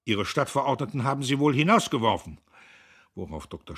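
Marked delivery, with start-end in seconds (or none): 0.0-2.4 loud, high, blustering taunt; big booming voice, pitched well up. A narrator's reading. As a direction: boom it out at full volume. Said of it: "dröhnend".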